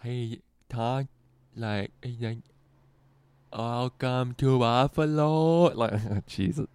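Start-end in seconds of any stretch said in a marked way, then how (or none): 0.0-1.0 imitating comic's speech. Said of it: "I'm gonna do his accent". 3.5-5.7 slow, drawn-out mock impression of the comic's speech; imitating disabled comic. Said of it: "I'm gonna do his accent".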